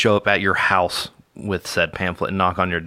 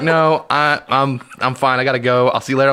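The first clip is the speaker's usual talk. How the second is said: flustered fleeing visitor; 4 semitones higher than usual. Retold or imitated.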